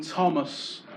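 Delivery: lightly voiced posh woman, very slow on please my eyes; a hint of a lofty hat-maker dumping Thomas; posh middle-class girl. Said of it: "It sounded like she made hats".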